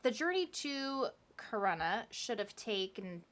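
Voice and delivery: stilted, robot-like reading; robotic. Real, not acted. Podcaster reading out the delayed journey, robotically. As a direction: slip into a robot's stilted delivery. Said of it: "I'm talking like a robot".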